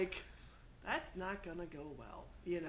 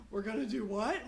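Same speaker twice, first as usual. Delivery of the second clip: alarmed disbelief; 2 semitones higher, 5 dB louder than usual. Retold or imitated. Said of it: "some parts being like".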